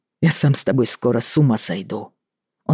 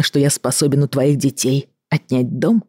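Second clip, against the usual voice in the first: usual speaking voice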